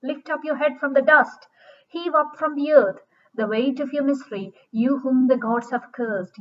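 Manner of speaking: firm, mildly commanding recital. Acted. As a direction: read it as orders to yourself, falling at each phrase end. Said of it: "She's speaking in commands".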